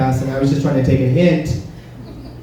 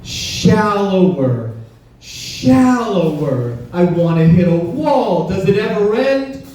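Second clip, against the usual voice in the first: mock bored lover; 5 semitones higher, slower than usual. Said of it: "he's like".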